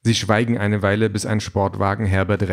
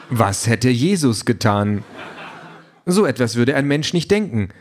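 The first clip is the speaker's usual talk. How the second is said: slightly raised, keen chatty voice; eager talking car; 3 semitones higher than usual. Acted. Car pesters reluctant Peter with topics, lightly eager voice. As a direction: push the small talk a bit too keenly. Car lectures on human reactions.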